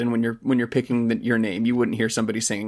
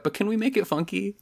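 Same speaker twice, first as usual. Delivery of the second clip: producer voice; 8 semitones higher than usual. Retold or imitated. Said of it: "is probably like".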